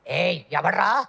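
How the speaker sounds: mildly angry crocodile challenge, rising at the end. Acted. Crocodile challenges whoever plays in its pool, mildly angry. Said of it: "దాని కోపం వస్తుంది".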